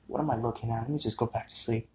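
sleepy muttering to himself at night; groggy mutter. Retold or imitated. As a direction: murmur it like you just woke up. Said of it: "And I was like".

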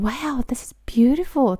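breathy whisper. Shown as a demonstration. Teacher demos admiring phrase.

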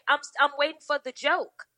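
deadpan challenge. Retold or imitated. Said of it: "And I said".

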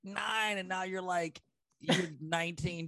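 high-pitched mock disbelief; playful, high astonishment; retold disbelief. Retold disbelief at grown-up child.

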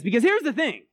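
retelling Ben's fervent point; Ben's intense rant. Retold or imitated. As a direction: preach it like a man possessed. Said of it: "he says".

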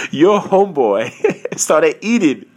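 chuckling between slow words; drawn-out words broken by chuckles; laughing. Real, not acted. Confessing to the audience about overeating, laughing.

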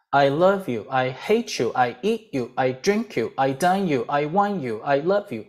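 rhythmic chant, stress on "love", "hate", "drink"; pattern drill. Shown as a demonstration. Teacher drills one verb pattern for learners. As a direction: drum the verb in each "I love you" frame. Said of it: "放进这个套路".

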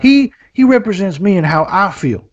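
high hick fan voice; hammed-up redneck gushing; mock redneck fan.

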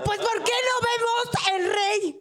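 hammed-up Mexican accent to her husband. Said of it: "para hablar así".

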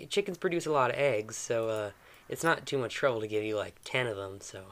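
put-on restored Mississippi southern accent. Game master's character offers plenty of eggs, southern accent. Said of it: "southern drawl".

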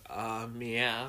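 lightly voiced Sonic meow; a hint of cartoon hedgehog. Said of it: "that's what Sonic says in the trailers".

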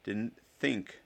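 mimicking in a sneer; mocking echo. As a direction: parrot it back mockingly. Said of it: "said Draco".

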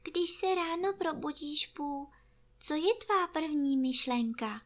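high little piglet voice; high-voiced curious piglet; Prasátko. A narrator's reading. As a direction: ask in a small, high-pitched voice. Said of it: "řeklo konečně prasátko".

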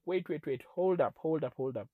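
retold disbelief. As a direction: cut in as if stopping someone short. Retelling his baffled reaction.

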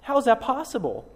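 doubting listener. Retold or imitated. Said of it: "You say".

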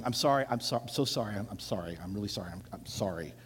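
catching breath midword. Retold or imitated. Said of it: "we apologize for it when we're doing".

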